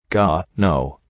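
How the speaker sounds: a low shudder of disgust, lightly voiced. A narrator's reading. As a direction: recoil with a shiver. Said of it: "I said with a shiver".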